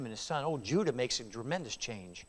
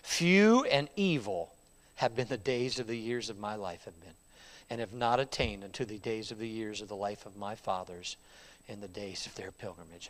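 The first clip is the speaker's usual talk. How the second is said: put-on weary old man; 5 semitones lower than usual. Old Jacob telling Pharaoh his age, tired and fading. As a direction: sink under the years.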